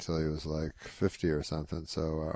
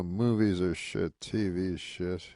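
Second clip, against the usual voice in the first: slow Rodney. Retold or imitated. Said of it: "He goes".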